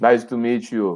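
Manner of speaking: put-on tired, worn-out old man voice. Retelling meeting a hero who seemed old and tired: imitating a tired Arnold Schwarzenegger. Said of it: "this old, tired man sitting in a golf cart".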